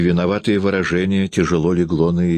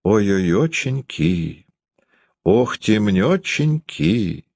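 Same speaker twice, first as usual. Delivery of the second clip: slow, higher mock lament; teasing mock wail; 4 semitones higher, much slower than usual. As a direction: drag it out like a fake sob song. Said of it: "дразнила её Дарья".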